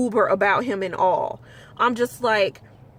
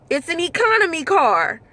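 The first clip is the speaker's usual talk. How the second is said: heated rant; 5 semitones higher than usual. Real, not acted. Ranting about entitled riders.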